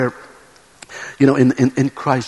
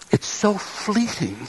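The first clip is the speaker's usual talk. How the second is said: sad whisper; 4 semitones higher, 4 dB quieter, slower than usual. Acted. God lamenting fleeting goodness.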